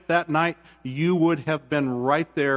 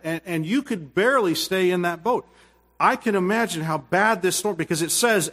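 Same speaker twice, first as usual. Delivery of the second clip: ordinary talk, nothing marked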